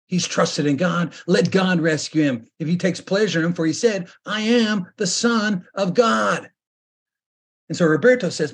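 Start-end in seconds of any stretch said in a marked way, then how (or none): 0.1-6.5 higher, slowing jeer ending in a shout; mocking crowd quoting his claim; scornful taunt. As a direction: throw his own words back at him. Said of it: "they mocked him saying".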